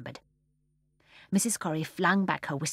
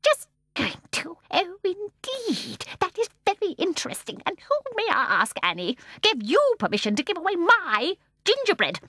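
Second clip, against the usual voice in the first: terrify them softly; soft fierce voice; 12 semitones higher, 5 dB louder than usual. A narrator's reading. Mrs Corrie scolding her daughters, fierce soft menace. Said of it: "in a soft, fierce, terrifying voice".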